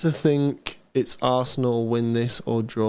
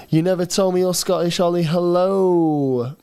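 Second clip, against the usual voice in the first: higher-pitched put-on Scottish accent; 4 semitones higher, 4 dB louder than usual. Shown as a demonstration. Streamer acting out a surprised viewer, Scottish accent. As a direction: play up a lively Scottish accent. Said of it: "Scottish accent".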